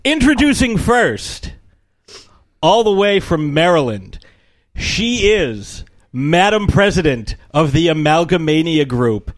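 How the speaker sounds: stretched, showy host introduction; announcer intro. Acted. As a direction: build it up like a game show host.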